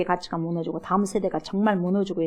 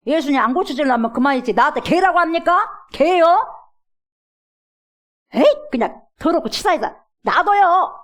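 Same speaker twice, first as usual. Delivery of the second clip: higher, louder indignant retort; offended retort; 6 semitones higher, 5 dB louder than usual. Retold or imitated. Mother snapping back at Jesus, mock offended.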